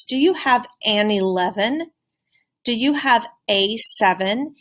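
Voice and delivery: slow rising question with "an" and "a" stressed; stressed article. Shown as a demonstration. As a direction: lean on the article before each number. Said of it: "Really stressing that".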